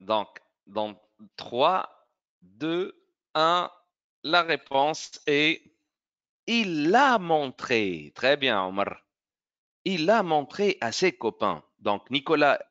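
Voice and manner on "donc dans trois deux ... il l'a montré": slow countdown rising toward the answer. Shown as a demonstration. Teacher to pupils: slow countdown before the answer. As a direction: count down slowly, then reveal the answer. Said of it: "countdown to the answer".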